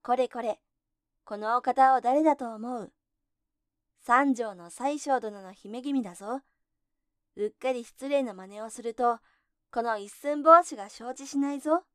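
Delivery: loud, defiant shout; tiny hero yelling up at the ogres. Acted. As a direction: bellow it out at full voice. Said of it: "ありったけの大きな声を振り立てて".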